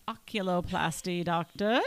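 a hint of English accent on the words; accidental English accent. Real, not acted. Podcaster naming her specialist, slipping into an English accent. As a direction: slip lightly into an English accent. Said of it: "said that with an accent".

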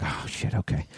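whispered, defeated sigh of words; resigned whisper. Retold or imitated. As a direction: mutter it under your breath, giving in. Realizing son must leave now.

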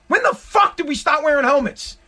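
mock-outraged rant about helmets; exasperated rant. Real, not acted. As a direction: vent at the cyclist, pitch up. Repeated rant question.

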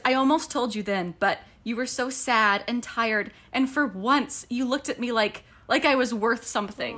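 tender reading. Acted. Reading Rhys's lines.

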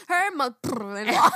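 shouted "Her mother-in-law" with a wail; loud cry. Shown as a demonstration. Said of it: "She's gonna go".

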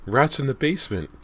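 high, loud alarmed cry; breathless cry. A narrator's reading. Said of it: "Callie cried breathlessly".

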